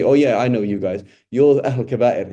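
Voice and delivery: knowing recognition. Retold or imitated. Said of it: "Or he'll say".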